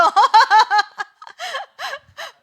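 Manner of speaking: loud, high-pitched burst of laughter; real uncontrolled laughing fit. Real, not acted. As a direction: crack up out loud, high and helpless. Cracks up mid-instruction.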